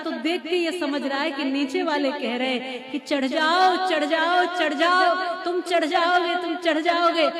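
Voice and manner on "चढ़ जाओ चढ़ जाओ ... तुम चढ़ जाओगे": higher-pitched, rallying mock cheers; imitated encouragement. Deaf frog imagines friends cheering him up, rousing imitation. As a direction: cheer the climber on, acted out. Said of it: "कितना प्रोत्साहित कर रहे हैं मुझे".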